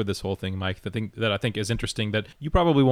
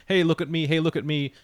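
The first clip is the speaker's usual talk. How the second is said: higher-pitched, lightly acted plea; imitated attention-seeking; 6 semitones higher than usual. Clark tries to get Lois's attention, higher, lightly eager. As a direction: try to catch someone's eye.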